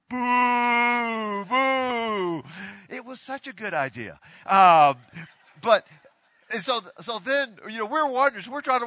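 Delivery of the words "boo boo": loud, high mock boo from the stands; a booing crowd, loud and drawn out. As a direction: boo him like the whole upper deck.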